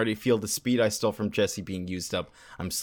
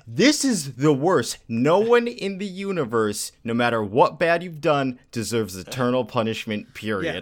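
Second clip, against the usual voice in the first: outraged rant. Retold or imitated. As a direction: explode in indignation, then wind down. Ranting against eternal punishment.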